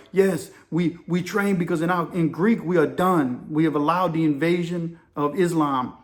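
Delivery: lightly imitated Greek accent; poor Greek accent. Greek chief explaining why the crew trains, mild imitated Greek accent. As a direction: retell it in halting, amateur Greek-accented English. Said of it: "in my poor Greek voice".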